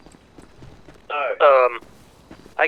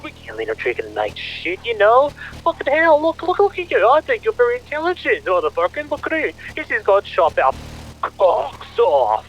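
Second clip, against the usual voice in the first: agitated rant. Acted. Father ranting to son about VP.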